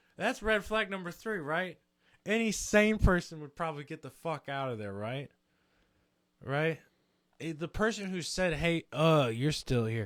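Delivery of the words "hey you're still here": mock dismissive, unwelcoming tone. Retelling what someone at a party said: imitating a dismissive tone. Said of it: "That was exactly the tone".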